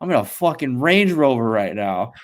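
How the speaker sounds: put-on brash, loud New York accent; playing up a New York accent; the speaker's New York accent. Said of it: "New York accent".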